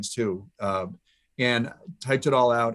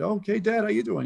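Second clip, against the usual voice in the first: surprised high son's greeting; 10 semitones higher than usual. Retold or imitated. Voicing himself answering dad's call.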